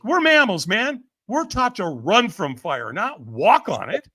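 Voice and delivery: stammering disbelief, slowing for emphasis; acted incredulity. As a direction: protest it as if it makes no sense. Brain incredulous at firewalkers.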